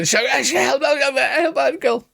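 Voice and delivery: high-pitched, rapid repeated pleading; mock cry for help. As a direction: play someone yelping for rescue. Acted cry for help in game.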